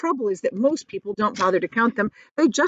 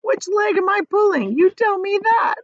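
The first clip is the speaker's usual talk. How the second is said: high, loud mocking glee; gleeful teasing; 13 semitones higher, 7 dB louder than usual. A narrator's reading. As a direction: tease the earthworm delightedly. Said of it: "wriggling with glee".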